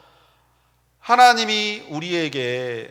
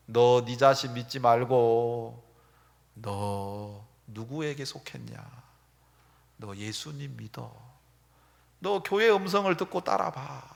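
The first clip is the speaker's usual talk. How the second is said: soft counsel; 7 semitones lower, 8 dB quieter than usual. Retold or imitated. Voices God's gentle counsel.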